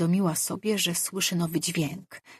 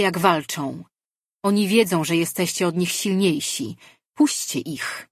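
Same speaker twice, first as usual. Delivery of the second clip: commanding deity; 3 semitones higher, 4 dB louder than usual. Acted. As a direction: speak as a god giving orders. Goddess speaks in their minds. (władczy głos bóstwa)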